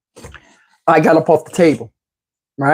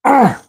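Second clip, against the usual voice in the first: higher imitated straining grunt; short mimicked grunt of effort; effortful grunt; 6 semitones higher than usual. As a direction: grunt like someone tugging hard. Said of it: "I'm hearing him going".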